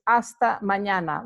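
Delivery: mañana with a clear ñ, maɲana; Spanish ñ. Shown as a demonstration. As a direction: stress the ñ sound in mañana. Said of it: "notice the ñ".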